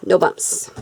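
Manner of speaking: soft unvoiced whisper of no bumps. Shown as a demonstration. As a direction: whisper it to yourself.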